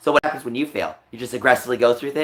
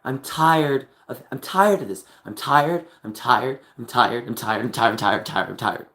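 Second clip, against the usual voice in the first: weary repetition. Real, not acted. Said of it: "I'm tired of lying for my brother".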